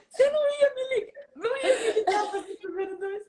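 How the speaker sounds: high voice laughing and tearful; laughing through tears. Retold or imitated. Coach laughing tearfully at the bathroom call. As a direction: laugh and cry the words.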